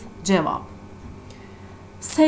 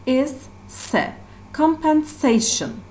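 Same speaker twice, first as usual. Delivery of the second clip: "compensation" with the weight on "se"; stress on SE; 5 semitones higher than usual. Shown as a demonstration. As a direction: pick out "se", then say "compensation" stressing it. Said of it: "stress syllable".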